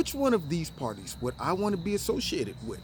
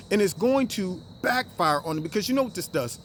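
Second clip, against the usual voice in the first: normal talking voice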